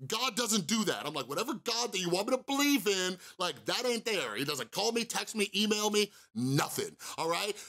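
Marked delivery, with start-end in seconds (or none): 0.1-1.1 angry rant. Retold or imitated. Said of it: "go on this rant". 1.3-7.6 angry rant. Retold or imitated. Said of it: "go on this rant".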